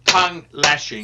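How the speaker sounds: slow, separated words on request; real slow. Shown as a demonstration. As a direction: repeat it slowly, word by word. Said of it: "say that again real slow".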